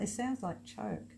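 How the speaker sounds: slow "choke" with a clear ch sound. Shown as a demonstration. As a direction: say "choke" slowly, ch not j. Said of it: "I'll take it back".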